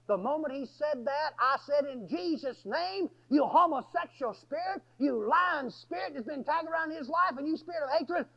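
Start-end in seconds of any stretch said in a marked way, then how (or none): 1.8-8.3 higher-pitched retold exorcism command; real forceful. Preacher casting spirits out of Robert, real forceful. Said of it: "I said that real forceful".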